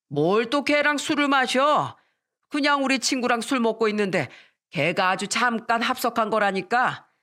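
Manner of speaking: acted exasperated denial; defensive protest. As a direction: protest innocence in a mock quarrel. Acted quarrel, husband protests.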